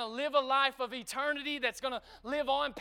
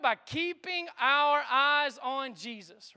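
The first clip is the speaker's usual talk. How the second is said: drawn-out preaching climax; slow it right down and land it; slow emphatic point; 3 dB louder, much slower than usual. Acted. Preacher driving home the sermon's main point, slow. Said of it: "preacher's key line".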